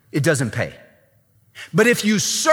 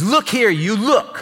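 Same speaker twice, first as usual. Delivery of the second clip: higher, curt and dismissive; rude disrespect; 6 semitones higher than usual. Retold or imitated. Elder son talking down to his father, mock rudeness. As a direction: brush the father off, mock insolence. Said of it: "This guy just says".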